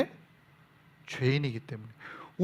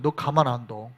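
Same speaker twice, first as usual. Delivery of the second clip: threatening; 8 semitones lower, 5 dB quieter than usual. Retold or imitated. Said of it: "완전 나쁘게 말하면".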